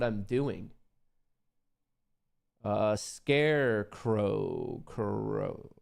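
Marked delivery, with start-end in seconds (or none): 2.6-4.8 slow Scarecrow said carefully, sounded out; trying out a name. Shown as a demonstration. Reading a viewer's name aloud, slow and careful. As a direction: draw out Scarecrow syllable by syllable. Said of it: "how you'd pronounce your name".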